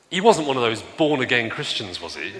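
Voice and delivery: a retold driver's mild sneer at born-again Christians; disdainful question. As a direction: let a light contempt color the question. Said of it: "the tone of voice with which he said".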